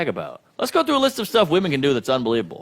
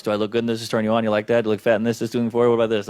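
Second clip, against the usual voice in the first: lower, mocking voice of a woman fishing for compliments; mock insecure woman; 8 semitones lower, much faster than usual. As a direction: play her needy questions with a sneer. Women asking men about looks.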